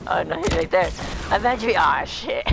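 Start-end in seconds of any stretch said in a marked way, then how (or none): 1.3-1.7 overacted death scene. Mock dying request again.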